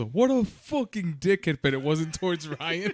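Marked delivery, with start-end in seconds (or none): 0.0-1.6 higher, drawn-out mock yell; retold yell. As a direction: imitate a friend yelling out an insult. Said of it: "and then Osvo yells".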